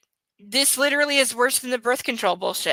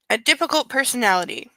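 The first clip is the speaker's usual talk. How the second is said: A difficult personality with weight on difficult; mocking repeat. Shown as a demonstration. Repeating the book's line to mock it, stress on difficult. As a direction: repeat the phrase dryly, leaning on difficult. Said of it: "repeats quoted phrase".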